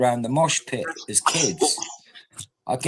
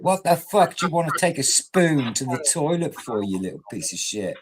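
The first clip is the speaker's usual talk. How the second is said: retold furious outburst at a friend; angry yell; 5 semitones higher than usual. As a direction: bark it like a mate losing it. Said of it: "went mental and said".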